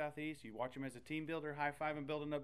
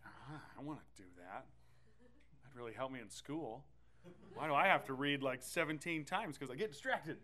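mock whine, building louder; whiny wannabe; 4 dB louder than usual. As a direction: playfully whine like a distracted kid. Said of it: "we're like".

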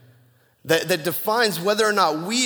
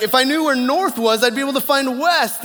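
much higher, louder, panicky retelling of the wife; imitating a frantic wife near tears; panicked wife; 8 semitones higher, 6 dB louder than usual. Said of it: "she's crying and she's freaking out".

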